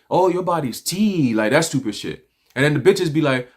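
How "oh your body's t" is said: mock effeminate. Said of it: "all that stupid shit".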